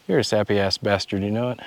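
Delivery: soft breathy jab, half laughing; mock insult whispered with a chuckle; teasing whisper. Real, not acted.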